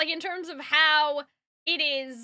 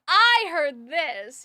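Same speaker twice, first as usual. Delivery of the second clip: snarky theatrical; 5 dB louder, much slower than usual. Retold or imitated. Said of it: "like, snarky almost".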